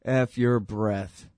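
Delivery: slow, cold, contemptuous retort; callous cop sneer. Retold or imitated. Cop mocking dying man, slow and cold. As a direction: spit it out slowly with contempt. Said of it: "says the cop".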